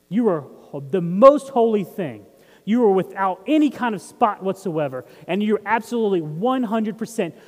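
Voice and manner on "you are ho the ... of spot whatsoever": emphatic proclamation. Real, not acted. Preacher proclaiming identity.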